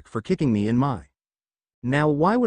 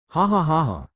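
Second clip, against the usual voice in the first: gloating laugh; 3 semitones higher than usual. Acted.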